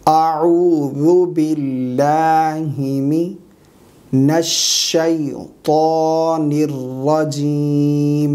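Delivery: very slow Quranic recitation with long-held vowels; correct recitation. Shown as a demonstration. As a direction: recite it syllable by syllable, drawing out every long vowel. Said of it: "صحیح تلفظات کے ساتھ پڑھ کر سکھائیں گے".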